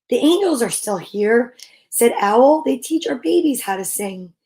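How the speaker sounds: gentle picture-book read-aloud; storybook reading. Acted. Reading a picture book about angels to listeners, gentle.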